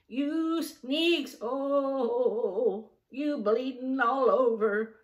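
put-on high, slow, tearful child's wail; a hurt little boy howling at the others; sobbing boy. A narrator's reading. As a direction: blubber the complaint out. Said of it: "he sobbed".

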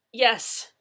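gushing. A narrator's reading. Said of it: "she gushed".

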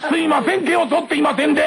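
高い声で大げさにこびる店員; 笑いながら客にこびるホステス風; へりくだる店員. Retold or imitated. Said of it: "っていうのが". (高い声で笑いまじりにこびる)

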